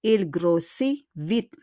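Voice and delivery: "Il grossit vite" slowly, "grossit" ending in ee; silent T. Shown as a demonstration. Teacher repeats the example after the rule, silent T. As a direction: stretch "grossit" and leave off its T. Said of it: "we don't pronounce the T".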